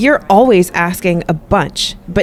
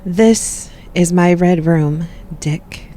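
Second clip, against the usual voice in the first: slow seductive reveal; slower than usual. Acted. Seductive reveal of red room.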